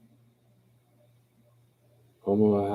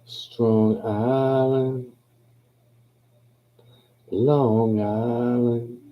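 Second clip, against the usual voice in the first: long, stretched vowels, pitched up; drawn-out hometown cry; 4 semitones higher, much slower than usual. Real, not acted. Saying where he's from, Long Island, drawn out and higher. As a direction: draw the island's name right out. Savouring his home's name.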